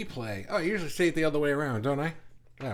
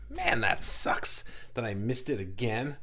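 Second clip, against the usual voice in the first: slow, mildly hammed-up letdown; mock disappointment; 3 semitones lower, slower than usual. Host voices a viewer who missed it, mock disappointed. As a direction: lament it slowly in pretend regret. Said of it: "to express your disappointment in yourself".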